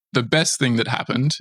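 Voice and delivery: emphatic weight on "best"; stress on best. Real, not acted. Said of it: "I emphasize and stress the word best".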